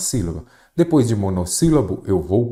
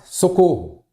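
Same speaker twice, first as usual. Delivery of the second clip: high, louder sample call for help; mock cry for help; 9 semitones higher, 5 dB louder, slower than usual. Teacher acting someone asking for help, mock cry. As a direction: call it out as a brief demonstration plea. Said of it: "alguém está pedindo ajuda".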